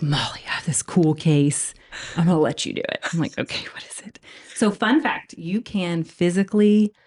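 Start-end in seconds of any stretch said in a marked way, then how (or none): 0.0-3.0 hushed, confiding whisper; secretive mentor whisper; whispered quote. Retold or imitated. Surgeon confiding the cool case. 3.4-4.2 soft curious whisper; hushed eager question; whispered reply. Retold or imitated. Intern answering in whisper.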